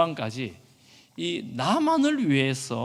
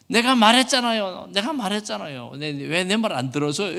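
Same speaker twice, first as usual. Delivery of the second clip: high, loud outburst easing off as it goes; imitated child talking back; 5 semitones higher, 4 dB louder than usual. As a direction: mimic a protesting child, without real tears. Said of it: "혼내면서 울면서 막 이렇게 막 대들어요". (대드는 아이 흉내)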